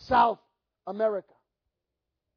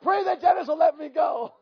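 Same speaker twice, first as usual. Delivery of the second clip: laughing repeat; 4 semitones higher, 4 dB louder than usual. Retold or imitated. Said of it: "That's what he said".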